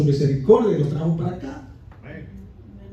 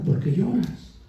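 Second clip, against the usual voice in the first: tag; 6 dB quieter, slower than usual. Retold or imitated. Voices Jesus consoling the listener.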